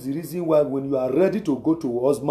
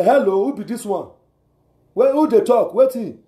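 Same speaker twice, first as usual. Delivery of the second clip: higher, louder, sharp demanding phone voice; married woman on phone; 5 semitones higher, 4 dB louder than usual. Retold or imitated. Married woman answering an unknown caller, sharp and loud. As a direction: answer like a suspicious wife. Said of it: "married woman you will call".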